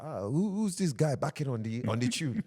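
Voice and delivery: high, loud baffled elder impression; put-on high-pitched old-timer, stretching the words; mock older generation. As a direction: exaggerate an indignant elder's complaint. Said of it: "the older general would be like".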